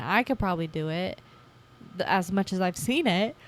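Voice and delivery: talking through a yawn; words stretched by a yawn. Real, not acted. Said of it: "Sorry, there's the yawn".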